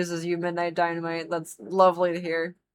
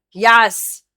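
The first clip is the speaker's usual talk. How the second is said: excited yes; 3 semitones higher, 9 dB louder than usual. Real, not acted. Cheering a choice.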